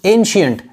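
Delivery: "एंशिएंट" said as EN-shi-ent; pronunciation demo. Shown as a demonstration. Teacher shows how it is read, "एंशिएंट" as EN-shi-ent. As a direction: sound out "एंशिएंट" with a clear sh. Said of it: "ऐसे पढ़ते हैं इसको".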